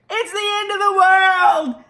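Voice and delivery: high, loud frantic cries; panicked. Acted. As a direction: run around screaming in panic. Panicked flight from hamster.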